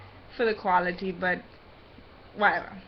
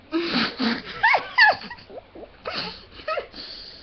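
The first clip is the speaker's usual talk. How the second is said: muffled high laugh. Real, not acted. Laughs with mouth full.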